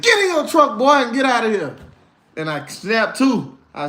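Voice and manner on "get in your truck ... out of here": the Lord speaking. Retold or imitated. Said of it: "the Lord was like".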